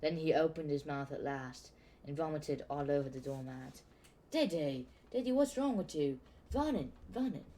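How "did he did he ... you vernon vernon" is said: high, anxious calling for Vernon; Petunia alarmed. A narrator's reading. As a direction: call out for your husband in a panic.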